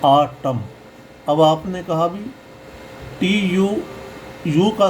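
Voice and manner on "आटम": आटम as "AA-tam", opening on a long AA; आटम in two even syllables, ending on M; AA, not O. Shown as a demonstration. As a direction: say आटम with AA for "au" and a silent N. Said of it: "ओ नहीं पढ़ेंगे".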